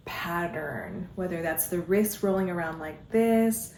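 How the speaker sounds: slow, drawn-out guiding voice with pauses; guided movement. Real, not acted. Dance guide leading followers through snake arms, guided movement. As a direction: ease them into flowing movement, lingering on words.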